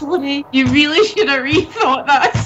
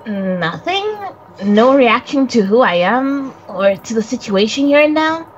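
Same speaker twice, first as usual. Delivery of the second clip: lightly voiced boy, puzzled; a hint of a boy surprised he gets no reaction; young boy character. Friend voicing the spirit boy, lightly puzzled. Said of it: "Coco, please, please take it away".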